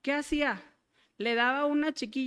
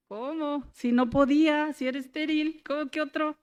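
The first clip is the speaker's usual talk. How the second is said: disbelieving reply; 3 semitones higher than usual. Retold or imitated. Retells her disbelieving reply to God.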